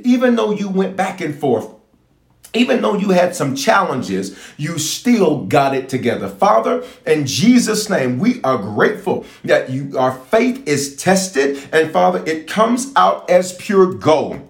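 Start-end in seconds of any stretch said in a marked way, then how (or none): 6.3-14.4 slow, lifted prayer address. Acted. Pastor praying for his viewers, slow and lifted. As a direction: pray it out over the people.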